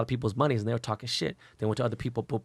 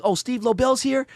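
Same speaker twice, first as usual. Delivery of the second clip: mimicking the DJs; 11 semitones higher, 3 dB louder than usual. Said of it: "They're like".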